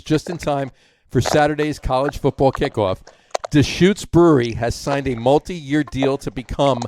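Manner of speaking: measured news-style reading; headline read-out. Acted. Host reading a beer headline to co-hosts, news-style delivery. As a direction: read it out deliberately, like an official announcement. Reads an official headline aloud.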